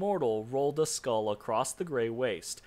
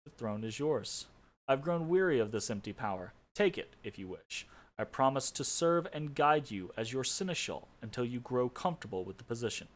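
weary. Acted. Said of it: "with a weary expression".

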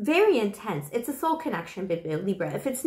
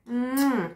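another smacking kiss; kiss sound; 2 semitones higher than usual. Pretend. One more kiss for the viewer, smacking kiss. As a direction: kiss the mic once more. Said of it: "one more".

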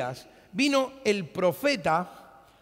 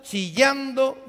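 drawn-out shriek word; 8 semitones higher, 6 dB louder, much slower than usual. Shown as a demonstration. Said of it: "ella iba graznando".

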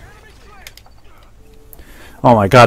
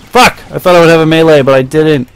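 high yelled curse, loud complaint; hit hard crying out; 5 semitones higher, 7 dB louder than usual. Real, not acted. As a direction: shout in frustrated pain. Getting hit, frustrated.

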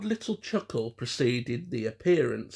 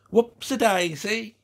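high, loud camp exclamation; Hans; 9 semitones higher, 6 dB louder than usual. A narrator's reading. Soldier puppet wobbles about, camp exclamation. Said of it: "made him wag a limp wrist".

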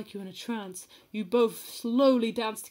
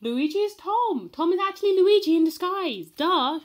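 higher, louder playful reveal; playful reveal to a friend, pitched up; mock reveal; 8 semitones higher, 6 dB louder than usual. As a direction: announce it like an obvious secret. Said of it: "mock reveal of secret".

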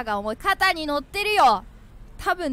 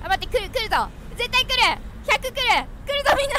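nervous anticipation; 6 semitones higher, 4 dB louder than usual. Real, not acted. Bracing for a game jumpscare.

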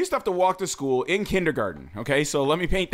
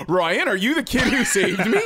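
a gasp, then a hammed-up higher question; mock amazed gasp; 4 semitones higher, 3 dB louder than usual. Meeting his rescuer years later, mock amazed with a gasp. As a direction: pretend starstruck reunion, laughing. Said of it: "be like".

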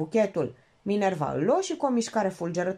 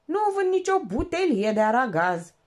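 squawky parrot voice, higher; a parrot repeating the phone line; parrot squawk; 6 semitones higher, 4 dB louder than usual. Acted. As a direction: screech it like a parrot. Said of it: "Cheops repeta într-una".

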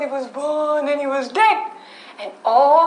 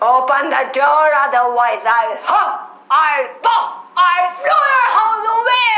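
wolf threat. Acted. Wolf's last threat.

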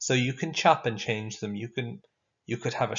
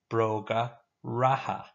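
slow, clear Irish word for the class; slow model word. Shown as a demonstration. Teacher modelling a new Irish word slowly. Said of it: "Now you say it after me".

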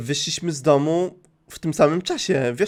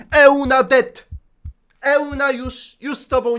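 exclaimed; 8 semitones higher than usual. Real, not acted. Gracz woła z emocją.

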